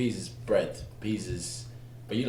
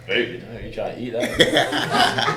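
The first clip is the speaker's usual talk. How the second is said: street slang quote; 4 semitones higher, 8 dB louder, slower than usual. Retold or imitated. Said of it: "That's when people are".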